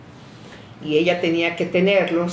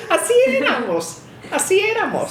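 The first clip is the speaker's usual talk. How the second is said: amused; 13 semitones higher than usual. Real, not acted. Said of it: "laughing remark on childhood".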